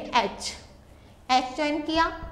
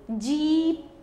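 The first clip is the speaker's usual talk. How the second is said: जीप with the ई held long; long vowel; much slower than usual. Shown as a demonstration. Teacher showing children the long sound, जीप drawn out. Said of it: "sound किसका आ रहा है इसमें long".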